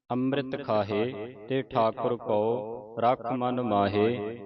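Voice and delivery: slow, measured verse reading; scripture recitation. Shown as a demonstration. Teacher recites the ashtpadi for students to follow, slow recitation. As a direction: stretch the vowels and pause after each phrase.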